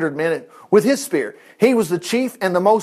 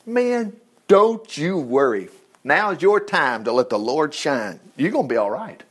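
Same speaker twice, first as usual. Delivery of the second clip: reassuring; 4 semitones lower, 4 dB quieter than usual. Acted. Comforting someone left behind.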